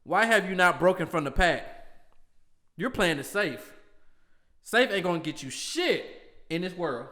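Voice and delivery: loud quote. Acted. Host reading his Austin quote to his cohost, loudly. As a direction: proclaim it like a wrestling promo. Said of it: "I'ma do a quote".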